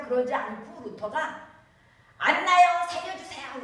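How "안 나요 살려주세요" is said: loud, high desperate plea; frightened monk calling on Saint Anne in a storm; panicked cry to Saint Anne. Retold or imitated. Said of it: "이러는 거예요".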